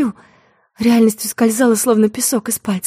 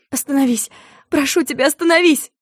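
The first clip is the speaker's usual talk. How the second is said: мольба, нарастающая от тихой к громкой; умоляй остановиться всё отчаяннее; испуганная мольба; 5 semitones higher than usual. Acted. Испуганная девушка умоляет водителя. (испуганная мольба, переходящая в крик)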